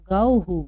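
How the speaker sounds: गौहु said firmly with the visarga as हु; गौहु as gau-hu; model reading. Shown as a demonstration. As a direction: repeat गौहु with a clear हु. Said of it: "क्या पढ़ेंगे हम इसको?".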